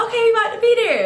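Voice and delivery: high, quick mimicry of him; imitating light voice. Boy saying he's nearly there, imitated light voice. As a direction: rattle it off in a high mock voice. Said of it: "his voice sounded light as fuck".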